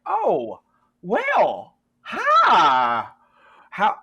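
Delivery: high, loud Southern greeting; a Southern good ol' boy hollering hi; Southern drawl. Acted. GM voicing Jed greeting the friends in a Southern accent. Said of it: "he's Southern".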